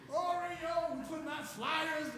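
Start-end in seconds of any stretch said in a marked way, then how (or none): 0.1-1.0 long, plaintive search call; mock crying call. Searcher calling the missing dog, mock crying. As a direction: imitate a tearful call for a lost pet.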